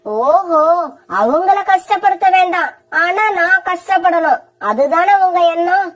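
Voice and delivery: a lightly voiced sharp, sulky wife; selfish young wife. Wife Kori arguing with her husband, sulky and sharp. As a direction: complain like a spoiled wife who wants help kept on.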